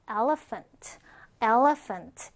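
"elephant" with a clear f for the ph; careful teaching pronunciation of "elephant", f in the middle; PH as an F sound. Shown as a demonstration. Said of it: "P H라는 부분은 프로 발음해요".

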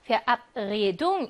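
verabredung with the second syllable, ab, stressed. Shown as a demonstration. Teacher showing the derived noun's accent, stressing ab in verabredung. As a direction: lean on the ab in verabredung. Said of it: "이음절에 강세가 있었겠네요".

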